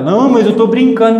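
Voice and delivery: mock excuse. Uncle excusing himself.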